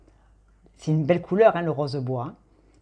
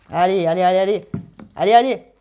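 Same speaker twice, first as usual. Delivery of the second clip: building cheer, louder at the end; 5 dB louder than usual. Acted. Card reader cheering the cards on, more and more loudly. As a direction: urge it on like a coach at the finish.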